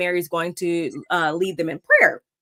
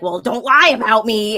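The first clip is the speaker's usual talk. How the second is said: retold angry retort; 7 dB louder than usual. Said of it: "she's like".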